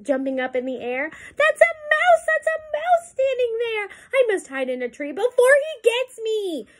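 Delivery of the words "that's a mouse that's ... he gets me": very high, panicky storybook elephant; panicked. A narrator's reading. Elephant panics at the mouse, high squealing fright. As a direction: squeal it out in mock terror.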